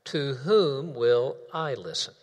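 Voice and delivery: slow, weighty question; a slow, solemn question to the congregation. Shown as a demonstration. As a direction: ask it slowly and deliberately. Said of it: "The question goes like this".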